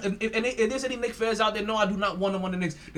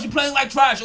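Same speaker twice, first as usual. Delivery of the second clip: mock heckle; 3 semitones higher, 7 dB louder than usual. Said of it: "somebody's brother's like".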